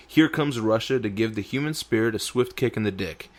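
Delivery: punchy news headline delivery; headline read. Shown as a demonstration. Reading the news headline aloud to his cohost, punchy.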